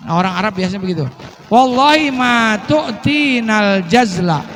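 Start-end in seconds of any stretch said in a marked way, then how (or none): 1.5-4.4 angry complaint. Retold or imitated. Complainant scolds Umar in Arabic.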